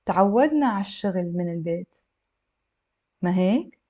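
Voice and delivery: careful reading with a long pause before the tag question; measured model sentence for learners; a little slow. Shown as a demonstration. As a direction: read slowly, not too slowly. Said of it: "a little bit slow".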